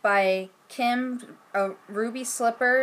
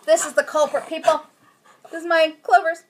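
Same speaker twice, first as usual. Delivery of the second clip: mock-proud presenting; 7 semitones higher, 7 dB louder than usual. Real, not acted. Presents the dog to viewers.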